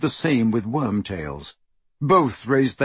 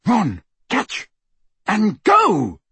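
high, urgent shout; yell; 8 semitones higher, 4 dB louder, much slower than usual. A narrator's reading. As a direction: yell orders to a friend. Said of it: "he yelled".

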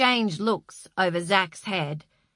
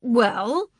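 desperately; 4 semitones higher, 6 dB louder than usual. A narrator's reading. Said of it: "said Tony desperately".

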